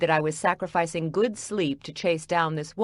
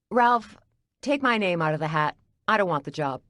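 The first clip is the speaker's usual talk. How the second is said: snapping; 2 semitones higher than usual. Acted. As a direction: cut him off with a snap. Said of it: "caused me to snap".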